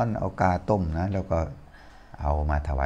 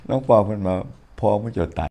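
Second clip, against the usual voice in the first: punchline said loudly; 4 semitones higher, 6 dB louder than usual. Retold or imitated. Punchline quoted loudly, laughing.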